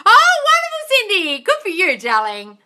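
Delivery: loud, high squeal of praise; whooping, drawn-out delight; delighted congratulations. Real, not acted. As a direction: cheer for her win. Congratulates viewer on her success.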